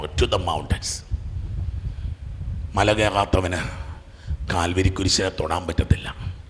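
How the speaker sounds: soft, low sermon voice; hushed reflection from the pulpit; hushed meditative preaching. Acted. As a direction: let it sink in, quiet and low.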